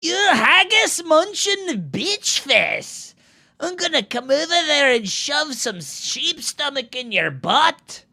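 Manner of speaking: high, loud, hammed-up Scottish accent; outraged Scottish brawler accent, drawn out; mock Scottish threat. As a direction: hurl a playful insult in exaggerated Scots.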